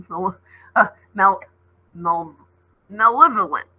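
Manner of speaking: laughing while retrying the word; stumbling over a word. Real, not acted. Reader tripping over a hard word, laughing. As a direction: fumble malevolent with a laugh.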